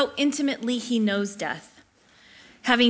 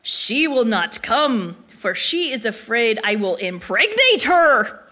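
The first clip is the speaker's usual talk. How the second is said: deep gravelly voice; 4 dB louder than usual. Retold or imitated. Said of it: "deep and gravelly voice".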